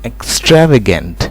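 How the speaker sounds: "extravagant" said carefully, stress on TRAV; careful pronunciation. Shown as a demonstration. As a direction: pronounce "extravagant" clearly for students, leaning on the second syllable. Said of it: "इस word की pronunciation होती है". ("extravagant" का साफ़, ध्यान से किया उच्चारण)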